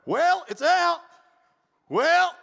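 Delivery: very high, loud squawk; acted-out indignant holler; mock yelled retort. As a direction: squawk it like a cornered brawler. Acting out the fight's escalation.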